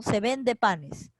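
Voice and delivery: each word drawn out slowly for the student; slow example reading. Shown as a demonstration. Teacher to student, dictating an example sentence, slowly. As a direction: read the example out slowly and clearly.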